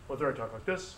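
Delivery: quiet classroom demo voice; soft talk. Shown as a demonstration. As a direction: drop the volume right down. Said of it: "it's the same frequency of my voice".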